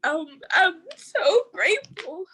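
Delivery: choked up, grateful and overwhelmed; tearful thanks; crying. Real, not acted. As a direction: voice breaking with tears, slow. Tearful scholarship speech.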